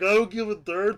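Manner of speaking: hammed-up shouted defiance; defiant mock shout. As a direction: yell it back like you don't care. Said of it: "He's like".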